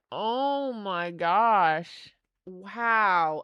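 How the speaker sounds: very slow, breathy-wondering; awed. Real, not acted. Admiring card art, very slow awed sigh. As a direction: let it out slowly in awe.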